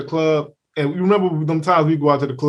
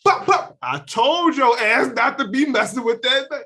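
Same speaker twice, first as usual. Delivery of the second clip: told-you-so filming; 2 semitones higher than usual. Retold or imitated. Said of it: "you're gonna hear me go".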